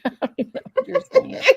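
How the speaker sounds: giggling through the words; high, quick laughing words. Real, not acted. Giggling at the burp joke.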